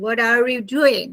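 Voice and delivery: American linked what-are, flapped t; American pronunciation of what are you doing; American accent. Shown as a demonstration. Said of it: "When you are speaking to Americans".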